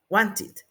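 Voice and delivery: WANTED in two syllables, "wan-tit". Shown as a demonstration. Teacher modelling the past, -ed as "it". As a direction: add "it" after WANT in WANTED. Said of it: "la vamos a pronunciar como it".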